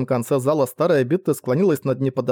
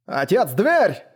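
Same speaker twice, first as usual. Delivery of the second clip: higher-pitched urgent call; warning cry; 5 semitones higher, much slower than usual. A narrator's reading. Son warns his father about the door, calling out. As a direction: alert him with a raised voice. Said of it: "крикнул, перекрикивая шум".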